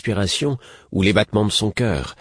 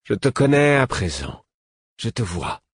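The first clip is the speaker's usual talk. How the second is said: great distant voice; 4 semitones higher than usual. A narrator's reading. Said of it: "telle une trompe lointaine, une grande voix".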